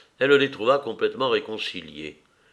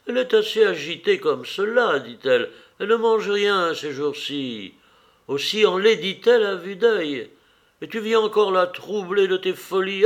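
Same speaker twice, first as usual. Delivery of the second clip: laughing scold; 8 semitones higher, 3 dB louder than usual. A narrator's reading. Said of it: "la princesse se fâcha tout en riant".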